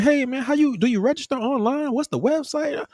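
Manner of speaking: lightly ape the guy who cut in; high mock chit-chat voice; mocking the chatty guy. Quoting chatty man.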